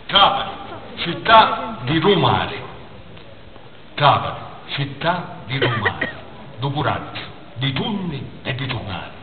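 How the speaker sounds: declaimed Sicilian verse with measured pauses; poem recitation. Acted. Poet dedicates verses to the people of Trapani, declaimed recitation. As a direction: declaim each short phrase, pausing between them.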